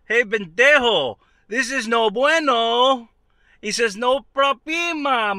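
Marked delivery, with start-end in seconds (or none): 0.1-3.1 mock angry scolding. Yelling at worker hitting wire. 4.0-5.4 carefree shouted reassurance. Retold or imitated. Cheerful worker shouting to the upset homeowner.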